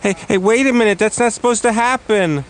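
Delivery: surprised. Acted. Magic trick goes wrong.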